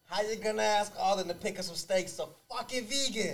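high, put-on Ma voice; Italian-American mother. Ma hearing of the vegan at family barbecue, high and scandalized. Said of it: "I'm gonna set up a scenario".

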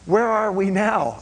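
an elder lost for words after a holy moment; dumbfounded question. Retold or imitated. Elder asks the men by the campfire, slow and stunned. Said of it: "and he goes".

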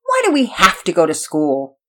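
put-on mildly whining child; complaining. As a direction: grumble about an unfair obligation. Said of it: "Pearson was quick to complain".

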